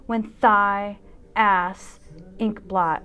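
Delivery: slow, measured reading of a poem over music. Acted. Dancer reads a poem to her viewers, measured and wry. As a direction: let each image land, unhurried.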